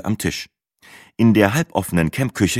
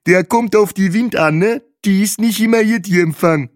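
much higher, louder character voice in broken German; foreign-sounding Bahe; 14 semitones higher, 5 dB louder than usual. A narrator's reading. Bahe explains the patchy phone reception to the guests, in a high character voice.

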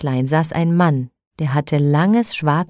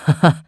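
short teasing laugh; a quick mocking ha-ha; laughing call. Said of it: "rief er".

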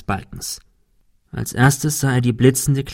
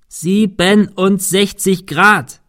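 puzzled repeat; 8 semitones higher, 4 dB louder, much slower than usual. A narrator's reading. Cecil repeats back.

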